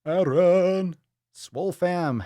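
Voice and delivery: loud and high, calling the name out; excited shout-out. Real, not acted. Streamer giving a loud, high shout-out to a viewer. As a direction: hype the viewer up with his name.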